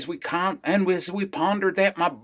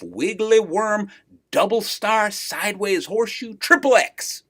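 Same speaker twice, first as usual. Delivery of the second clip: building list; 3 semitones higher than usual. Acted. Punchline build, name list.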